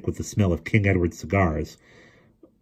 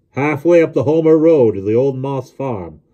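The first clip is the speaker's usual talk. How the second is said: loud, raised-pitch call; shouted answer; 7 semitones higher, 7 dB louder than usual. A narrator's reading. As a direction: holler directions up to the driver. Shouts destination to driver.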